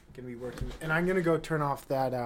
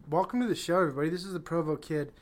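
restarted intro; faster than usual. Acted. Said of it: "excuse me".

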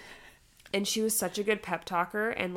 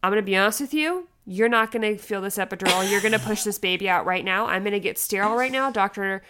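retold firm nurse; 6 dB louder than usual. Nurse takes charge, retold.

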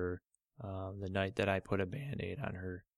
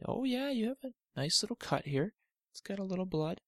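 lightly voiced, slightly higher soothing dad; dad calming his daughter; 11 semitones higher than usual. Father calming Olivia about her cut toe, gentle. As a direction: gently reassure the hurt girl.

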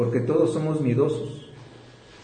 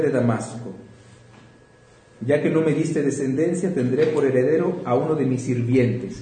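scripture reading. Acted. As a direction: read the passage to the congregation. Reads Genesis passage aloud.

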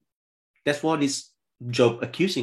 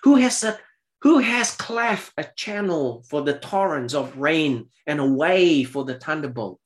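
God's challenge; 3 semitones higher than usual. Acted. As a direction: thunder the first words like God. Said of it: "Verse twenty-five".

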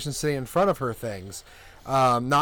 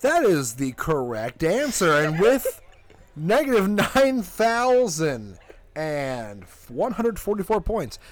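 game show host. Acted. Announces winner as host.

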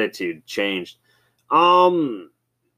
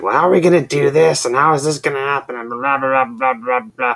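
high, loud, fast mock fretting; flustered coworker; 5 semitones higher, 6 dB louder than usual. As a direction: rattle off worried questions in a put-on voice. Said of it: "and he was just like".

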